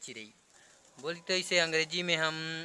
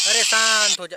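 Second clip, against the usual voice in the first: hushing the bird; 3 semitones higher, 9 dB louder than usual. Real, not acted.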